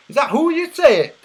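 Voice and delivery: high, loud mock Scottish accent. Shown as a demonstration. Streamer repeating his question, Scottish accent. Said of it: "That was my Scottish accent".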